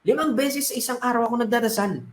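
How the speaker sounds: a dead man grumbling to the Lord; complaining. Acted. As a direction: list your good deeds like an injured complainer. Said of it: "nagreklamo siya".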